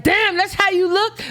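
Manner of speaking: high, amazed quote; mock shock at her looks; surprised men. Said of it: "and then they like".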